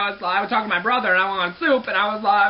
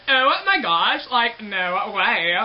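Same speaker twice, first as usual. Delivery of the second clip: put-on drawn-out Valley Girl drawl on the last words; light Valley Girl impression; much slower than usual. Shown as a demonstration. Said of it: "my Valley Girl voice".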